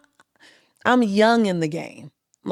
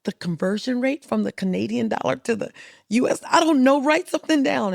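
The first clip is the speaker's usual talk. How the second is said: panicked orders to an assistant, rushing; mock-frantic boss; freaking out; 5 semitones higher than usual. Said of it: "I'm just freaking out".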